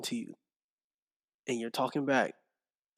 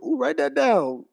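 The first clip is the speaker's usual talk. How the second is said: much higher and louder "ooh, write that down"; excited self-quote; 12 semitones higher, 7 dB louder than usual. Retold or imitated. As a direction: sell it like a hype moment. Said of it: "I go".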